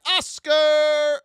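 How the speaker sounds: high, loud name call. Real, not acted. Trader announcing the next stock loudly. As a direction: announce the ticker with a punch. Calling out the ticker.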